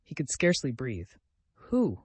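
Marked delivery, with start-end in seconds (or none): 1.5-2.0 a sharp, much higher cry; fierce cry. A narrator's reading. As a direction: fling the question back fiercely. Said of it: "Ivan cried almost fiercely".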